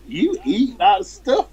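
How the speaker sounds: high, slow, incredulous question; mock horror at the food; shocked disbelief. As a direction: sound appalled at the idea. Retelling shocked reaction to friend.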